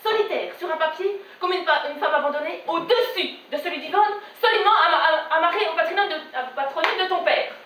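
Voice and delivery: lightly voiced offended mother; measured, affronted maternal reproach; indignant mother. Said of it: "Elle me dit". (mère offusquée, légèrement jouée)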